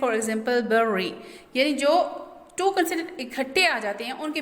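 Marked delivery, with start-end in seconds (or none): 0.7-1.1 "berry" broken between the two r sounds; split into syllables. Shown as a demonstration. Teacher showing where to divide a word, "berry" syllable by syllable. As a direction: say "berry" in two separate beats, ber-ry. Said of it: "Divide between two middle consonant".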